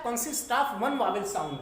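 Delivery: very slow, word by word, for copying down; teacher dictating the definition slowly; slow dictation. Shown as a demonstration. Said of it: "तो syllable क्या होता है?".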